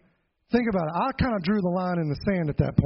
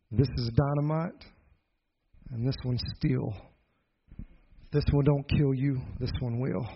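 low, measured menace with long pauses; uncle's threat; 4 semitones lower than usual. Retold or imitated.

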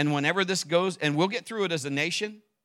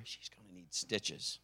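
softer, slow hushed aside to wife; retold whisper; 6 semitones lower, 12 dB quieter, slower than usual. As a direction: keep it low so the child won't hear. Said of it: "I, I whispered to her".

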